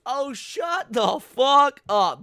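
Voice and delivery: exasperated angry yell; fed-up shout. Real, not acted. Fed up after mocking quote.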